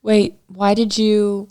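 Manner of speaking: ordinary talk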